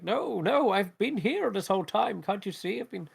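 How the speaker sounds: put-on high-pitched, pleading old wizard; poor old wizard. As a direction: protest as a hapless old wizard. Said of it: "the poor old wizard replying".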